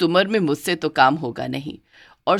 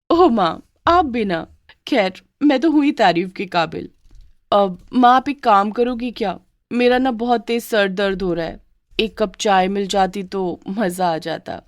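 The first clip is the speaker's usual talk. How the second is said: coy daughter-in-law; 2 semitones higher than usual. Acted.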